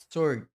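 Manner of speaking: "sword" said as sord, no w, stressed and loud; silent w. Shown as a demonstration. Teacher stressing the correct "sword" to the class. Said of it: "É como se fosse apenas um O".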